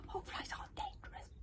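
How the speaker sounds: unvoiced hushed reply; whispering. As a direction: whisper it low. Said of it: "whispered back".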